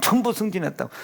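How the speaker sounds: softly repeating 전부 승진했다고; quiet echo. Shown as a demonstration. Repeating the punchline softly to the congregation. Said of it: "repeats the line".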